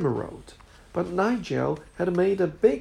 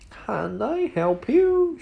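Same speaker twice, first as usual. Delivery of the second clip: eager shop assistant; 8 semitones higher, slower than usual. Acted. Shop assistant greeting customer.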